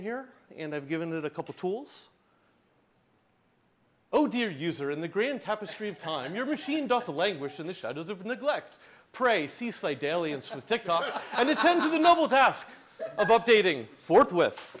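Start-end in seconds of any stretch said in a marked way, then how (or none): 4.1-14.8 Dickensian reading. Pretend. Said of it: "Do it in the style of Charles Dickens".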